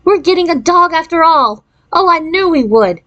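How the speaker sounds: put-on high, thrilled little girl; excited. A narrator's reading. Jan thinks she'll get a dog.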